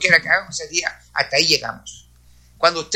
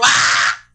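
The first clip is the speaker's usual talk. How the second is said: retold yell; 12 semitones lower, 4 dB louder than usual. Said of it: "Gritó".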